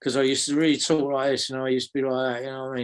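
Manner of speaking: broad South London voice; South London accent. Shown as a demonstration. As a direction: slip into his old South London accent. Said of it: "that insidious little South London accent".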